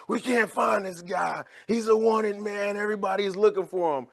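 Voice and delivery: half-shouted mock alarm; mock police chief shout. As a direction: play a frantic police chief on the phone. Police chief panicking on phone.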